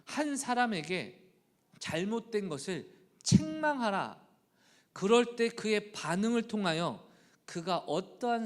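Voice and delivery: high, loud and slow, pulpit force; fervent preaching. Acted. Pastor proclaiming scripture to the church, fervent preaching. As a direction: proclaim it to the congregation.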